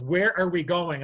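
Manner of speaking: slow, firm demand from the delivery bed; stern wife. Retold or imitated. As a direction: press him for the truth, sternly. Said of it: "with a more stern voice".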